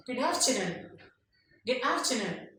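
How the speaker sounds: GOOD AFTERNOON lifted on AFTERNOON; "Good afternoon" in a lilting teaching tune; rising greeting tone. Shown as a demonstration. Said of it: "use of the rising tone is for greeting".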